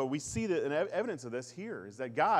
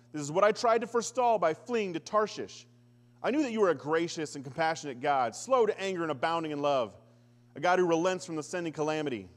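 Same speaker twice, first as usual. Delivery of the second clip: indignant raised-voice prayer; Jonah's angry prayer; 3 semitones higher, 5 dB louder than usual. Acted. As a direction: rail at God like a sulking prophet. Preacher voicing Jonah's angry prayer.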